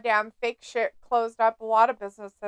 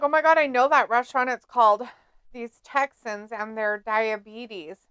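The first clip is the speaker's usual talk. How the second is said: put-on Texas accent. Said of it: "in a Texas accent".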